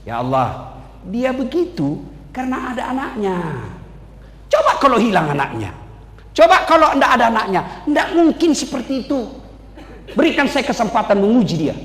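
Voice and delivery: sly devil pleading through laughter; the devil coaxing God, laughing. Acted. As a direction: wheedle with a chuckle. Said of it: "Apalagi dia bisik".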